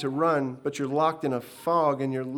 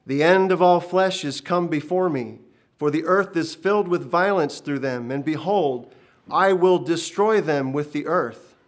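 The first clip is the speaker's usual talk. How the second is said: loud, booming divine pronouncement; thunderous heavenly judgment; roaring voice of God; 3 semitones higher, 7 dB louder than usual. Acted. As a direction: let the words roar down from above. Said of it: "As the roar melted away".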